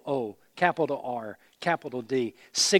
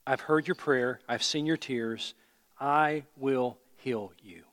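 slow tender quote; slower than usual. Acted. Quoting God slowly, tenderly.

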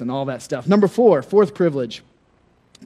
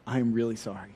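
softer, lower apologetic request; sorry plea; 5 semitones lower, 8 dB quieter than usual. Retold or imitated. Calling Rob for help at night, softer and apologetic. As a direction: ask for help, sheepish and soft. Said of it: "I said".

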